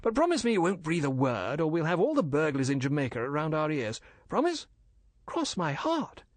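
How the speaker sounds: lightly acted coaxing officer; Major Smythe, conspiratorial. Husband swearing wife to secrecy, lightly voiced.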